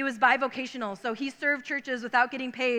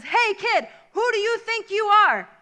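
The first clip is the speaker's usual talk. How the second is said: higher, louder, slow mocking challenge; challenging driver; 7 semitones higher, 4 dB louder, slower than usual. Bulldozer driver challenging boy, mocking loud voice. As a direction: sneer at the kid.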